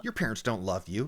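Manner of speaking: retelling a bad parent's taunt, low and cold; Roald Dahl parent. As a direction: sneer it like a storybook villain parent. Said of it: "like bad parents in a Roald Dahl book would be like".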